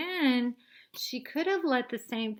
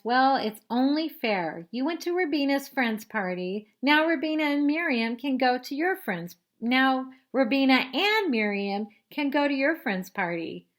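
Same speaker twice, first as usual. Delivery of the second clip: louder, higher lecturing; bossy big sister; 5 semitones higher, 7 dB louder than usual. Acted. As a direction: lay down the rule.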